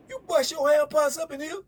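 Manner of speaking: loud, high outraged yell at the cellmate; retelling an inmate's furious yell. Retold or imitated. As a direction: blow up at him, disgusted. Big Rip yelling at his celly.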